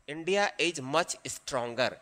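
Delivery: slow, quiet word-by-word dictation. Shown as a demonstration. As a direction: spell it out slowly as you write. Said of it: "तो लिखेंगे यहां". (धीरे-धीरे लिखवाना)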